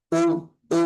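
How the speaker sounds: উ with a hard glottal attack; abrupt hamza onset on উ; firm pronunciation. Shown as a demonstration. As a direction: strike each উ firmly from a closed glottis. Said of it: "এভাবে শক্ত করে উচ্চারণ করতে হবে".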